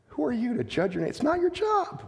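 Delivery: "Who are you to judge your neighbor?" fired off fast and pointed; quick pointed retort. Shown as a demonstration. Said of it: "repeats the line differently".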